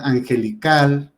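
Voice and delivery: angelical with the weight on its final CAL; stress on CAL. Shown as a demonstration. Teacher contrasting an aguda without written accent, stress on CAL. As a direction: lean on the last syllable of angelical, CAL. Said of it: "también es una palabra aguda".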